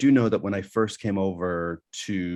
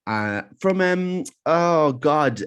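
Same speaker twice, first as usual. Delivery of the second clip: high, urgent, excited; excited nudging; 8 semitones higher, 5 dB louder, slower than usual. Retold or imitated. Lady nudging her husband, high excited urging. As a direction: tug at him, thrilled. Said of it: "hitting her husband".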